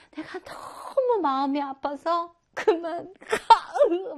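slow, rising to a drawn-out cry of go; mother breaking off with a sharp order; mother sending son away. Shown as a demonstration. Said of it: "막 이런 거죠". (단호하게 내쫓는 어머니)

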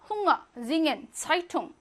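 헝어, 징엔, 차이퉁 with ng and no g; ng only. Shown as a demonstration. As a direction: let the ng in 헝어 melt into the vowel. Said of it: "엉 소리만 나는데요".

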